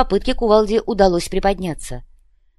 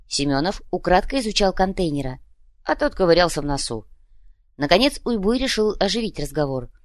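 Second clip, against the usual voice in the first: usual speaking voice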